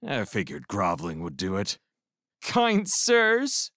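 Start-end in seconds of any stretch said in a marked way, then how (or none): 2.4-3.7 high, pleading "Kind sirs"; a prisoner grovels to two crewmen; plaintive. A narrator's reading. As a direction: beg sweetly from the ramp. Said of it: "I began plaintively".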